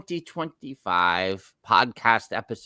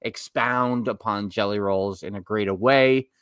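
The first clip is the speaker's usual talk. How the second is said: New York accent. Real, not acted. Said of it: "That was my New York accent coming out".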